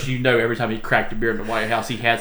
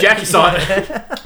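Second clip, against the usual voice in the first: playful drawl; 9 semitones higher, 5 dB louder, slower than usual. Pretend. Jokey drawn-out punchline.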